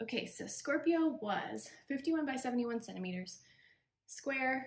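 breathless, puffing, winded, out-of-breath voice. Just back up the stairs after getting a child, giving measurements, out of breath. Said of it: "I'm out of breath. I just went up the stairs".

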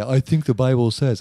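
put-on loud, dopey, dumb voice. Acting out what someone will say, the speaker uses a stupid voice. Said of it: "That's actually my voice for when I'm being stupid".

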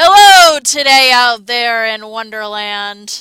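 booming, slow, drawn-out announcer voice. A non-example of how to talk, in the Johnny Bravo radio voice. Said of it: "I call it the Johnny Bravo radio voice".

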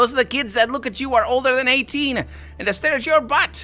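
screechy put-on voice. Speaker voices a talking liver in a comic bit, screechy liver voice. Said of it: "screechy voice. Livers have screechy voices".

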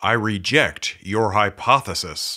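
bold, assured, loud and confident. Explaining statistics, voicing the small p-value, loud and confident voice. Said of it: "in a loud and confident voice".

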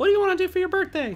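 high-pitched voice. Quoting what she asked him, in a high-pitched voice. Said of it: "I said it like that high".

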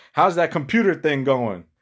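heavily sarcastic, sing-song tone. Speaker retells a woman's husband's remark to her, mock-sarcastic. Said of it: "real sarcastic".

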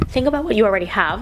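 voice breaking and cracking mid-phrase. Addressing new viewers of the channel, voice cracking. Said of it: "sorry my voice cracked".

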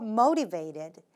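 motivated with heavy stress on first syllable mo. Pronunciation feedback after someone reads aloud: stress on first syllable of motivated. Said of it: "앞쪽에 액센트가 있는 발음이에요".

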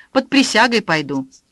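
ordinary delivery

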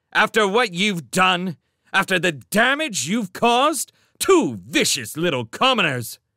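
angry, harsh, berating tone. A gentleman confronts the children who hit his car, angry. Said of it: "angry gentleman berates children".

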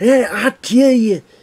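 slow announcer voice, rising pitch. Retelling a wrestler's promo when his voice got higher: imitating Sid Justice's higher voice. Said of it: "when he started getting his voice higher".

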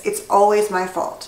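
ordinary talk

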